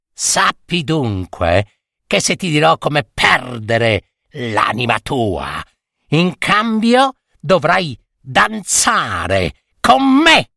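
name the price like a witch; scheming witch. Acted. Witch names her price.

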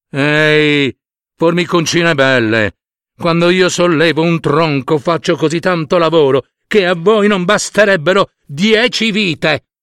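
lightly voiced, patronizing elephant; bragging elephant. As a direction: talk down to the little ants. Elephant brags about work. (elefante che si vanta con le formiche)

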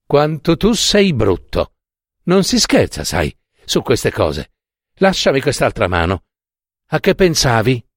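a hint of a girl chiding her sweetheart; girl chides the narrator for joking, playful; playfully scolding girl. Narrator voices scolding Jenny.

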